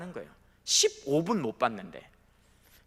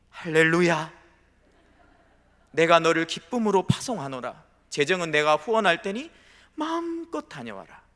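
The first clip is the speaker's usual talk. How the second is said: mock joyful blessing; 5 dB louder than usual. Parent gladly sending child on mission.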